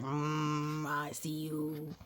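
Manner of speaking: soft, slow, lightly voiced girl; a hint of a shy girl. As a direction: quietly say it as the peeking girl.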